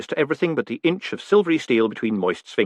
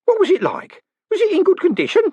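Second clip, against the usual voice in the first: put-on high, louder old-man voice insisting; fussy old postman pressing; insistent old man; 5 dB louder than usual. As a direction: demand the details, worked up. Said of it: "Groat insisted".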